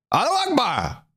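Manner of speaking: high, hammed-up fake Arabic accent. Podcaster mocking an ISIS caller to a PR firm, fake Arabic accent. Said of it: "I can't get the accent right".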